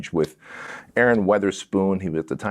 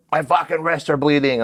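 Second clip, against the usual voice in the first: raised-pitch imitated whine; mock complaint; 4 semitones higher than usual. Zip-tied man complaining to his guard, higher protesting voice.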